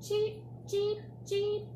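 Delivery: high chirpy bird cheeping. Pretend. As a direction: peep it like a tiny bird. Animal sound in picture book.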